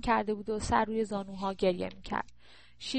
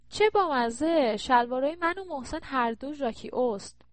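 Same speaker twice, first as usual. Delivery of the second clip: excited; 4 semitones higher, 3 dB louder than usual. Acted. Aye delighted at matching trousers.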